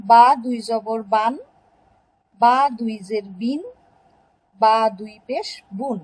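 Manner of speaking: teacher modelling বান, বিন, বুন after each spelling; pronunciation demo. Shown as a demonstration. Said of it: "এর উচ্চারণগুলো হবে".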